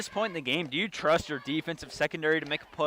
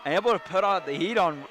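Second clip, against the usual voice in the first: excited; 4 semitones higher than usual. Real, not acted. Recapping the sack live.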